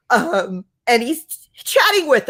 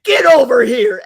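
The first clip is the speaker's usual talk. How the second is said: mock Scorpion growl, a bit louder; Scorpion battle cry; 6 dB louder than usual. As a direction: yank him in like Mortal Kombat's Scorpion. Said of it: "totally Scorpion from Mortal Kombat him".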